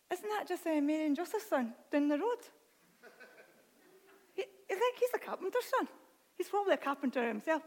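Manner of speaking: put-on puzzled villagers in an Irish accent; doubting onlookers with an Irish lilt. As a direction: slip into an Irish accent, incredulous. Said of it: "I don't know why I've changed my accent".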